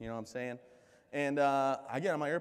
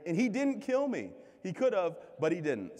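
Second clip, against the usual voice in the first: emphatic punchline; 7 semitones higher, 4 dB louder than usual. Real, not acted. Joke about father-in-law in audience.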